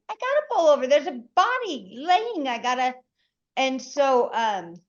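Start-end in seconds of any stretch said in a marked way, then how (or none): 0.1-2.9 urgent insisting. Retold or imitated. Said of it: "I said".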